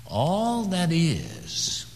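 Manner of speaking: drawn-out whisper, pitch high; slow hushed whisper. Acted. Preacher whispers to hush the congregation, drawn out. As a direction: breathe it slowly. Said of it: "Can you hear me?".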